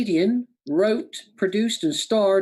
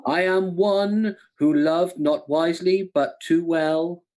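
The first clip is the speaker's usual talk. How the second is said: slow Shakespearean recital, lightly acted; well-known thespian; slower than usual. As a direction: recite it slowly like a stage actor. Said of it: "a well-known thespian".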